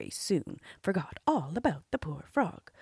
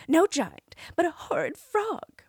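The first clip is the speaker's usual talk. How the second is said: put-on higher, louder girl's voice; frightened princess; 10 semitones higher, 5 dB louder than usual. A narrator's reading. Princess telling the king about the frog, high and scared. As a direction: say it like a scared young girl. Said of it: "answered she".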